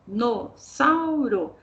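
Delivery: dinossauro dito bem devagar, sílaba por sílaba; dinossauro silabado. Shown as a demonstration. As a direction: soletre "dinossauro" lentamente em sílabas. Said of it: "Olha lá, o X". (lendo dinossauro devagar em sílabas)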